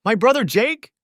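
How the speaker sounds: high, loud, furious question; enraged disbelief. Acted. Husband yelling at his cheating wife in disbelief. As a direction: yell it in outraged disbelief.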